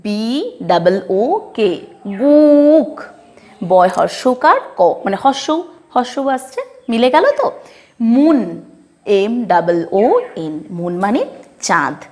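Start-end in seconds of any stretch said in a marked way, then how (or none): 2.2-2.9 বুক with a clear উ vowel, raised and stressed; English word pronunciation. Shown as a demonstration. Teacher modelling book for the class, clear and emphatic. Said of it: "উ এর মতো হচ্ছে নাকি". 8.1-8.4 মুন with a long উ vowel; English word pronunciation. Shown as a demonstration. Teacher modelling moon for students, slow and careful. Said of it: "উ এর মতো হচ্ছে নাকি".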